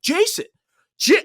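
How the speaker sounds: high, bright call of his name; imitating friends greeting Jason; mock call out. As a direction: call across the room to a friend. People calling out to Jason.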